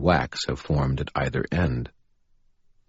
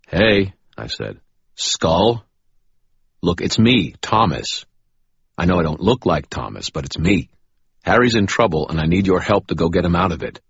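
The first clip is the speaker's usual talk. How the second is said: put-on raised, pleading young man voice; urgent young man; 5 semitones higher, 7 dB louder than usual. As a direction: urge the skull to listen. Thomas voices himself to skull.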